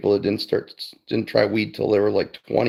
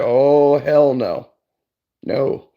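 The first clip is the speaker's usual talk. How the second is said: emphatic refusal; 4 semitones higher, 4 dB louder, much slower than usual. Retold or imitated. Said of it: "I'm like".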